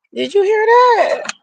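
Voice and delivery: high, shocked disbelief. Real, not acted. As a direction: squeal it out in disbelief. Shocked at horoscope line.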